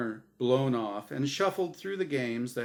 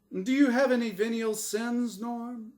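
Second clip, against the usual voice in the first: booming, bright host voice; game show host; 10 semitones higher, 4 dB louder than usual. Acted. The angel Azrael hosting his show for Norm, big host voice. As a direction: sell it like a TV quiz host.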